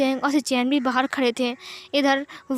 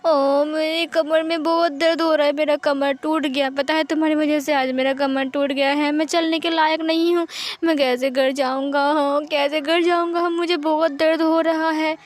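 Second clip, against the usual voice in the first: fake crying. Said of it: "वांग जी ऐसा करके रोने लगता है".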